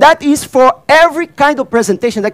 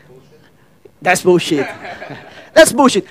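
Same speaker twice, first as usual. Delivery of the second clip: laughing scoff; 5 semitones lower, 3 dB quieter than usual. Real, not acted. Laughing dismissal of owner's view.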